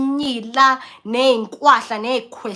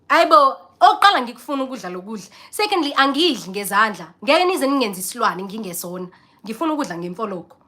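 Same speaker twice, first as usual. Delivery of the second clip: indignant inner rant. Retold or imitated. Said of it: "Hey, bo".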